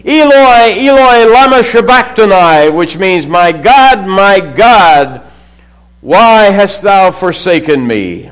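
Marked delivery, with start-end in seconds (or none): 0.0-2.7 high, loud anguished cry of Eloi; a preacher's loud anguished cry. Acted. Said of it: "Jesus cried out in a loud voice". 3.3-8.3 louder anguished plea, slowing at the end; a preacher voicing Jesus's loud cry. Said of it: "cried out in a loud voice".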